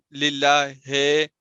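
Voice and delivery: slow للہ ہے with a drawn-out e ending; majhool mispronunciation. Shown as a demonstration. Teacher showing an unclear vowel, slow majhool للہ ہے. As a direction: drag the end of للہ ہے into a vague e. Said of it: "اس کو کہتے ہیں مجہول پڑھنا".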